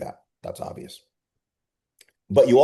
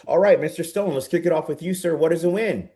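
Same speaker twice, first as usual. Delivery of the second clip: upbeat host calling on someone; 7 semitones higher than usual. Shown as a demonstration. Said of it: "I'll go".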